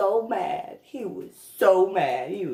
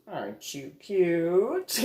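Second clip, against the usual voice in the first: teasing coo; 2 semitones lower, slower than usual. Real, not acted. Teasing the pouty guy.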